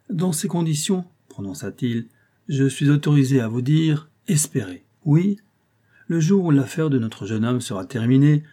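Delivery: lightly voiced old clerk, knowing and insinuating; hint at danger like a crafty old law clerk; sly old clerk. Old clerk warns the concierge of her enemies, lightly insinuating.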